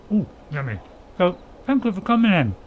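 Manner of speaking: talking through a biscuit; mouth full. Real, not acted. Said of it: "I'm talking with a biscuit in my mouth".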